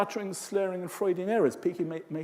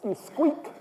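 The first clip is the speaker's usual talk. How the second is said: squeaky voice; 10 semitones higher than usual. Shown as a demonstration. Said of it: "Because when you're tense".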